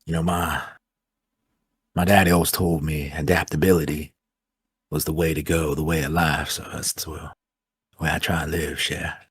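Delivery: put-on easygoing Louisiana accent. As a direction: talk like a Louisiana bayou local. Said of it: "Ah, that accent. You're Louisiana?".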